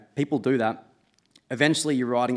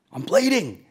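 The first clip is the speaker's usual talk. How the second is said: panicked; 8 semitones higher, 5 dB louder than usual. Retold or imitated. After the crash, telling mates.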